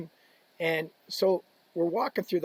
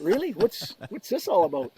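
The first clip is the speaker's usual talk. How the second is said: stunned; 3 semitones higher than usual. Retold or imitated. Player puzzled by a huge ovation, stunned. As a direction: play baffled by the crowd, half laughing. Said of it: "like, stunned".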